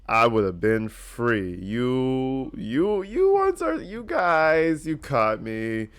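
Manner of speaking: mock gloating confession, slow and drawn; smirking suspect voice. Vlogger voicing the smirking suspect in a slow, smug confession. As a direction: ham up a caught villain's sneer. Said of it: "he's almost smiling like".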